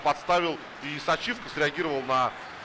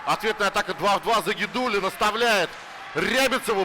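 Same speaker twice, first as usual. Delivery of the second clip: excited play-by-play; 3 semitones higher than usual. Real, not acted. Fast counterattack call.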